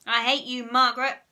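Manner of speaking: put-on loud childish yell; screaming. A narrator's reading. Susan screams at Margaret in a loud yell. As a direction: yell it at her friend. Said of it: "screamed sour Susan".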